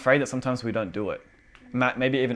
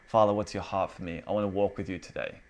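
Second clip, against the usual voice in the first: lower, softly spoken to a father; gentle prayer; 4 semitones lower, 5 dB quieter than usual. Shown as a demonstration. Son greeting his Father each day, gentle. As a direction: talk to God simply and quietly. Models a simple daily prayer.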